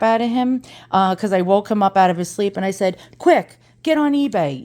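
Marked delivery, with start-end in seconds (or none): 3.2-4.6 urgent, higher-pitched start; urgent retold plea. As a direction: re-enact a rushed midnight demand. Waking husband at midnight to buy.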